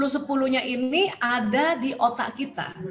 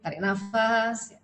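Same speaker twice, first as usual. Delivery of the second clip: slow breathing cue; slower than usual. Shown as a demonstration. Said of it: "latih diri kita kalau lagi marah".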